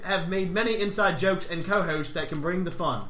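put-on Aussie letter reading; Australian accent. Host reading Australian listener's podcast plan, put-on Australian accent. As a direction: read it with an amateur Australian accent. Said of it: "He's Australian".

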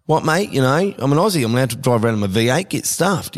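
lightly voiced defiant Aussie bloke; mock an Aussie digging his heels in; indignant Aussie motorist. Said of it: "people out there in the public will be like".

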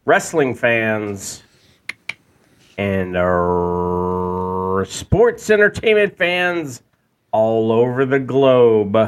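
lightly hammed ring announcer opening; grand entrance announcement. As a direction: call it out like a wrestling ring announcer. Host opens like ring announcer.

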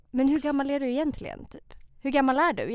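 put-on a mild Finnish-accented driver asking her age; a light Finnish-Swedish lilt. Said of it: "jag kan inte imitera mitt eget folk".

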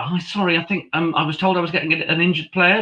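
high-pitched apologetic call, imitated; retold calling down. Commentator calling down for a player, mock call-out. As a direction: act out politely calling down for help. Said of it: "and then I'm shouting down".

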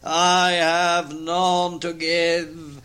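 very slow, sung-out moan; wailing ghost. Acted. Ghost refuses comfort, slow wailing moan. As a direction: moan it like a dirge.

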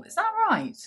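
high, surprised question. Real, not acted. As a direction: sound amazed.

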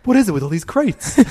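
high whiny complaint. Retold or imitated. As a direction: whine it out. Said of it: "He'll be like".

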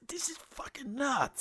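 hushed, breathless this is nuts; whispered awe. Retold or imitated. Telling a friend about finding the sports shop in the game, whispered awe. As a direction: whisper it, amazed.

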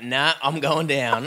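low, slow surrender; lightly acted old drinker going down; resigned stubborn drunk. Acted stubborn faller giving up.

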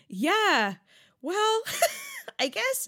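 squeaky high, wounded yeah-well; mock little-girl pout with a laughing squeak; hurt Charlotte. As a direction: let it crack up into a squeak. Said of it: "And Charlotte's like".

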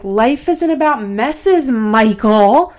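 imitated nasty voice, slow and pointed; mock someone's off-putting, aggressive positivity; Farrah. Imitating a woman lecturing Michael, nasty voice. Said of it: "that nasty voice".

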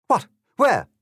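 high, loud, eager little bird; sparrow voice. A narrator's reading. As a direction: pipe up in sudden high excitement. Sparrow reacts to mention of worms.

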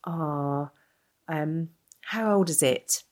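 slow mock-curious question, no extra force; drawn-out prying question from a stranger in a shop; lightly imitated stranger, slow and curious; imitating a nosy stranger. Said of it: "And she's like".

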